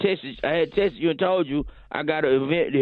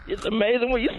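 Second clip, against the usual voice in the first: mock emotional; 8 semitones higher than usual. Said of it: "I'm getting emotional".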